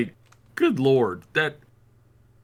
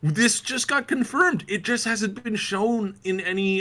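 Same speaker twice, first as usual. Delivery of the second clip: emphatic correction; 8 semitones higher, slower than usual. Real, not acted. Insists to co-host, correcting him.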